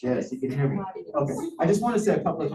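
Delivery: muffled through a mask; talking through a face mask; full face dive mask. Real, not acted. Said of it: "Can you hear me through the mask?".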